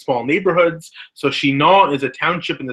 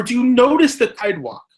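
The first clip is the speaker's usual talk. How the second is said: put-on high-pitched little-kid excitement; higher voice, full of childlike wonder; curious young child; 9 semitones higher than usual. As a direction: ask like a kid amazed by everything. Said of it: "the child will turn and say".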